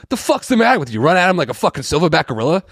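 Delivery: high, loud movie outburst; acted angry scolding. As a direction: imitate an outraged man telling someone off. Acting out Wahlberg confronting dad.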